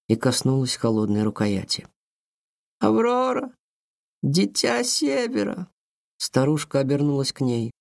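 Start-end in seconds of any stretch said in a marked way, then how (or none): 2.8-5.7 otherworldly voice. A narrator's reading. Grandmother calls Aurora in ritual.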